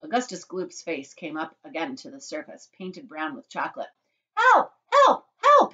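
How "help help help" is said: high, loud cries of distress; yelling for help. A narrator's reading. Drowning boy calls to watchers, yelling for help. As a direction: yell in short high bursts. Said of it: "he yelled".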